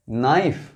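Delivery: नाइफ begun straight on the N, no K sound; silent K. Shown as a demonstration. Teacher modelling a silent-letter word for learners, नाइफ with no K. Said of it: "यहाँ के silent है".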